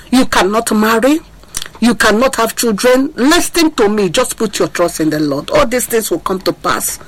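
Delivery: ordinary talk, nothing marked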